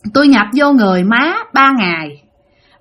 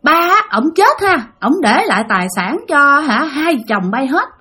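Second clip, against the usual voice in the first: retold scolding in a higher pitch; chửi trách; 3 semitones higher than usual. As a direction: reproach him, pitch lifted, as a mock telling-off. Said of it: "bà hai mới chửi nói". (giọng mắng trách cao, kể lại)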